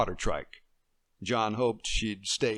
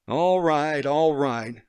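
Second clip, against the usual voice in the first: exasperated giving in; 5 semitones higher, 7 dB louder, much slower than usual. Acted. John giving in.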